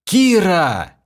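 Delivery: high, loud furious bellow; loud raging yell into the sky; furious roar. A narrator's reading. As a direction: roar her name in rage. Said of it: "я в бешенстве заорал".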